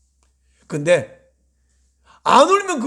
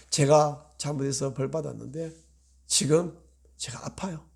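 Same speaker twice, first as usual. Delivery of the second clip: whispered prayer; 4 semitones lower, 5 dB quieter than usual. Retold or imitated. Pastor voicing a hurting believer whispering to God. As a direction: breathe it to God.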